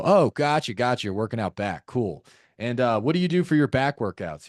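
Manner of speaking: perfunctory gotcha, then on to the next question; weird interrogating tone. Shown as a demonstration. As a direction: acknowledge by rote like a form-filler. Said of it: "Just sounds fucking weird".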